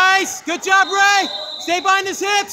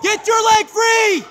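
slow, drawn-out coaching shout; slower than usual. Real, not acted. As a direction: yell it out slowly across the mat. Coach yelling from the mat side.

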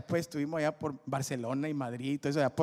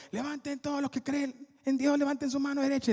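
higher, called out to a crowd; rally the room, arms up; llamado al público; 11 semitones higher, 4 dB louder than usual. Retold or imitated. Calling out to crowd. (llamando al público en voz alta)

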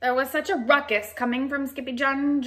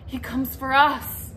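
excited small dog voice; 10 semitones higher, 4 dB louder, slower than usual. Acted. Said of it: "said Paquito".

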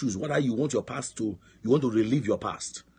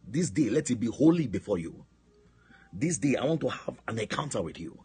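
prayer of surrender. Acted. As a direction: plead to God with stretched key words.

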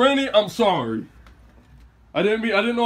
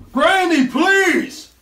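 pleading call; 9 semitones higher, much slower than usual. Real, not acted. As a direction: call through the door, pleading. Begging granny through door.

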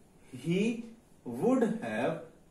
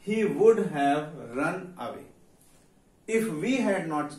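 slow dictation; 4 dB louder, much slower than usual. Shown as a demonstration. Teacher dictating the English sentence.

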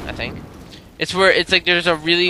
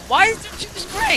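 sudden squeaky high pitch; voice cracking high. Real, not acted. Voice cracks in panic.

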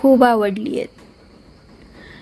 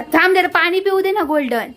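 high-pitched pet talk; 8 semitones higher than usual. Real, not acted. Telling the pet to wait.

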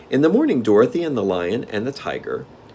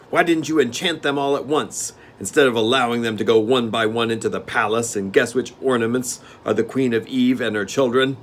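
steward; 4 semitones higher, 4 dB louder than usual. Acted. Steward questioning the king.

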